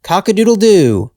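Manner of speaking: high, quick, loud cock-a-doodle-doo; a storybook rooster crowing from the roof. A narrator's reading. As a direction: crow it out like a proud rooster. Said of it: "a rooster on the roof cried loudly".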